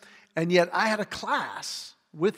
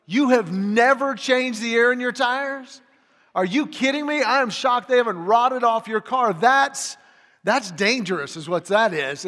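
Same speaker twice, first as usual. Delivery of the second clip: mock shock; 4 semitones higher, 4 dB louder than usual. Mock shock at friend's tires.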